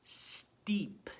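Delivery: teacher showing the new word steep with delight; excited reveal. Shown as a demonstration. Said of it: "Now it says".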